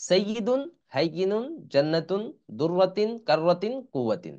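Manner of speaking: word-list reading, each word lifted at the end; reading demo. Shown as a demonstration. Teacher showing learners how to read the words, measured list reading. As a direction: read the list out with a rising tune, dropping on the last. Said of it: "reading কিভাবে পড়বো?".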